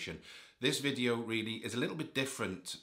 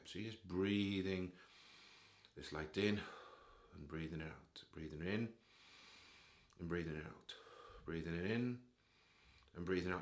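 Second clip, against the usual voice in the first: guided breathing; 3 dB quieter than usual. Shown as a demonstration. Guiding listeners breathing light in and out, meditative. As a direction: lead the breath unhurriedly, phrase by phrase.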